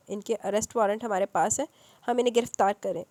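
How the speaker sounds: a hint of firm authority; lightly voiced strict officer; stern. Policeman insists on the arrest, mildly stern. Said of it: "سختی سے کہا".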